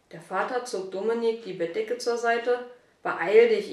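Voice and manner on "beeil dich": loud, pressing hurry-up; urgent call. Acted. Father hurrying his late son, loud and urgent. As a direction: push the boy to move, now.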